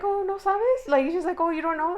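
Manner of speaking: high, loud retold surprise; mock-surprised questioning. Agent's surprised reply, retold.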